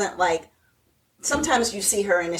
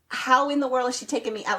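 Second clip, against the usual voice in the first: mock indignant; 5 semitones higher, faster than usual. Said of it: "she is mad".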